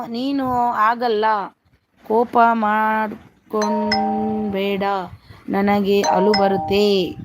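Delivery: very slow, drawn-out reading; slow sounding-out. Real, not acted. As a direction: read it out word by word, stretching the syllables. Sounds out a viewer's comment. (ಎಳೆದು ಎಳೆದು ನಿಧಾನವಾಗಿ ಓದುವುದು)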